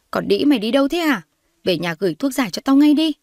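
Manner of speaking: high, loud furious demand; angry yell. Acted. Loan yelling at her friend on the phone, furious.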